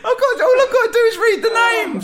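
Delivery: high, laughing, breaking up; laughing while trying to read; trying not to laugh. Real, not acted. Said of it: "Stop making me laugh".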